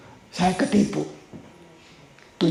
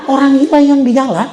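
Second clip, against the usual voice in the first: laughing; 7 semitones higher, 7 dB louder than usual. Real, not acted. Describing crazy singer with laugh.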